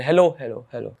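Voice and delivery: hello repeated like a delayed echo. Shown as a demonstration. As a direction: mimic a delayed echo bouncing back. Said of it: "delay के साथ गूंज आ रही है".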